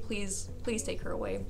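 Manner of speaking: hushed, timid begging; soft imitation of a meek plea; Michael. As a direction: plead very softly, as an embarrassed kid. Voices embarrassed boy begging.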